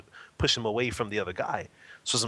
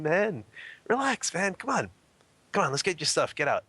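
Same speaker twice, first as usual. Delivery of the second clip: higher-pitched, smiling coaxing; 8 semitones higher than usual. Retold or imitated. Bystander talking a drunk man down, smiling coaxing. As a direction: coax him to relax, voice lifted. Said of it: "I'm just smiling and saying".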